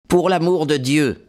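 voix plus aiguë, suppliante et tendue; cri de douleur. A narrator's reading. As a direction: crier sa douleur, la voix montée. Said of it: "cria-t-il". (blessé qui supplie, cri aigu de douleur)

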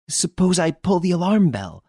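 a shaken woman on a train; frightened lady. Acted. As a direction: play the rattled lady passenger. Narrator voices the lady.

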